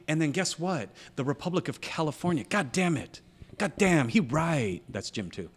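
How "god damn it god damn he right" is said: grudging admission. Retold or imitated. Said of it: "feel like".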